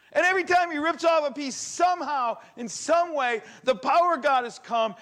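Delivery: high, loud, building excitement; preaching at full force. Acted. Preacher telling the crowd of the miracle, high and loud. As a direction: sweep the room along with rising fervor.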